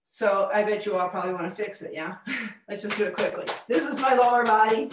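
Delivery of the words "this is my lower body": louder, full and grounded; confident, grounded tone; grounded lower body voice. Shown as a demonstration. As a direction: plant the voice in the feet, louder. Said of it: "Ah, better".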